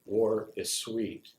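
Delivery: deliberate recital with pauses between images; poem reading. Acted. Veteran recites a poem on the smell of war, deliberate reading. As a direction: lay out each phrase of the poem separately.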